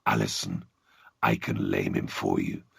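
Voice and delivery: very deep demonic dog voice; talking dog. Acted. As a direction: rumble it low like a hell hound. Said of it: "the dog talked".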